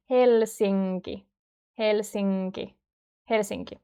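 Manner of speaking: "Helsinki" with the NK joined as a nasal ng; careful Finnish "Helsinki" with nasal NK; nasal NK sound. Shown as a demonstration. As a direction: hum through the NK in "Helsinki". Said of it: "they become mm sound".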